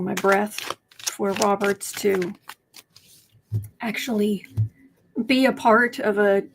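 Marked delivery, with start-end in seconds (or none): 3.8-4.5 whispered aside. Real, not acted. Ranting host whispers a snide aside to viewers, whispered. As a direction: drop to a sly whisper on this one word. Sarcastic aside in political rant.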